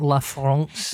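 La France drawn out with a French vowel; French pronunciation. Retold or imitated. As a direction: slowly copy the French sound of La France. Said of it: "Is that how they say it".

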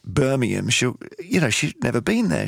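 normal talking voice

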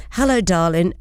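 lightly imitated Irish parent greeting; Irish accent. Parent messaging pregnant daughter in Australia, light Irish accent. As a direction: retell it with a touch of Irish. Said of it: "in this Irish accent".

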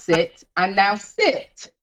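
slow, firm dog command. Retold or imitated. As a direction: say it like training a dog. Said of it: "somebody used to say to me".

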